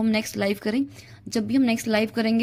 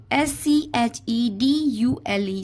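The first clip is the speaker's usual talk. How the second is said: slow spelling out; much slower than usual. Shown as a demonstration. Teacher to SSC students, slowly spelling out शेड्यूल. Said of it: "तो सही spelling क्या होगी?".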